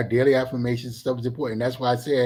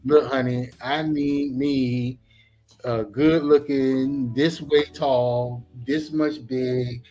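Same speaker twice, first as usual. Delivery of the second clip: sassy inner voice. Retold or imitated. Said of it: "what you vibrating is".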